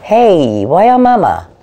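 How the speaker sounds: startled delight at the cat climbing on her; real surprise with a gasp, high and loud; surprised gasp. Real, not acted.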